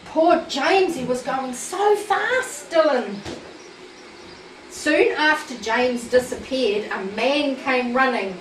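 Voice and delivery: lively storybook reading voice; reading to a child. A narrator's reading. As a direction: read the story aloud to a little listener. Reads a Thomas story to child.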